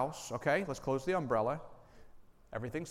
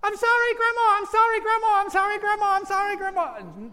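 put-on much higher and louder, a desperate little girl; frantic child pleading; 13 dB louder than usual. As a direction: blurt the apology over and over as a panicked child. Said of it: "guess what she does?".

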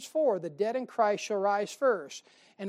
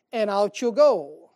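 preaching shout; 9 dB louder, slower than usual. Acted. Preaching rapture climax.

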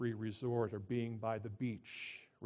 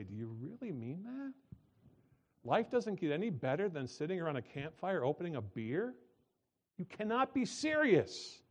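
mock disbelief; 4 semitones higher than usual. Mock reply to beer slogan.

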